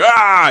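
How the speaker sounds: imitating the big clone's goofy battle yell; mock brute yell. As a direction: bark out a big brute's "Ah!" as he smashes something. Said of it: "between him going".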